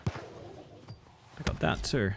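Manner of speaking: slow, drawn-out whisper. Pretend. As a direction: breathe it out slowly, whispering. Repeats line in slow whisper.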